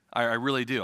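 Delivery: ordinary talk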